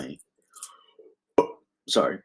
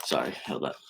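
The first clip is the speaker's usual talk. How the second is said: quiet aside; 8 semitones lower, 12 dB quieter, faster than usual. Real, not acted. Aside off the mic.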